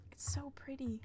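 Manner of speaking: "pretty" whispered softly in awe. Real, not acted. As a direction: breathe "It's so pretty" as a whisper. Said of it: "It's so pretty, though".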